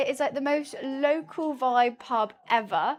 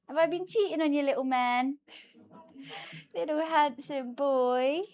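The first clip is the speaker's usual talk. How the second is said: cooing to the cat; 2 semitones higher than usual. Real, not acted. Talking to her cat.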